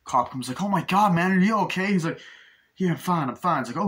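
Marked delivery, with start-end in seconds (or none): 0.6-1.9 high, loud mock panic; acted alarm. Retelling cop finding the flipped car, acted alarm. 2.8-3.6 higher-pitched mock fluster; acted agitation. Retelling crashed driver to cop, acted agitation. Acting crash victim brushing off help.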